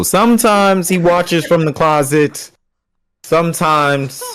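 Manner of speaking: mocking retelling. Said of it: "it's changing".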